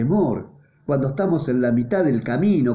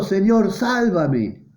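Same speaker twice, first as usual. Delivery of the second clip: mock cry for help; 5 semitones higher, much slower than usual. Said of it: "gritó diciendo".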